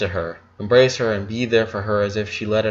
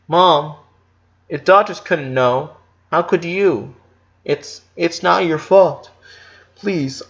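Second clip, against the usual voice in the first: put-on higher, slow, upset boy's voice; pleading boy; 5 semitones higher, slower than usual. A narrator's reading. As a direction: beg her to stop blaming herself.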